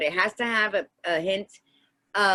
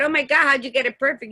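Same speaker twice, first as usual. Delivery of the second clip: delighted surprise; 4 semitones higher, 3 dB louder, faster than usual. Retold or imitated. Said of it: "And I said".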